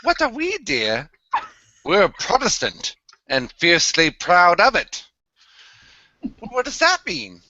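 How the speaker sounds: scripted bit in a put-on English accent. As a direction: recite it in a British accent, lifting the questions. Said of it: "he went English there".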